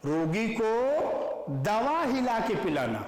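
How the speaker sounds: mild scolding, calling him a fool; lightly voiced rebuke. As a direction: correct him with mild scorn. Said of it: "कह रहे".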